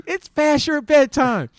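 high, loud, slow taunting yell; mock heckler yell. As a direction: drag out the taunt like a fan behind the bench. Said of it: "he would just start screaming".

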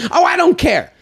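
mock airy shrug. Host mocking guest who won't say how to pronounce it, airy and careless.

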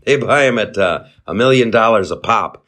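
lightly voiced deadpan comedian impression; a hint of a dry deadpan comic selling nonsense; barely-changed deadpan comic voice, mock sincere; Norm Macdonald. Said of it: "I'm suddenly, I'm Norm Macdonald".

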